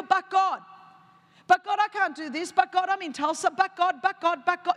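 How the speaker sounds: whiny protest. Retold or imitated. Believer whining excuses back at God, in a pleading whine. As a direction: whine "but God" over and over like a stalling child.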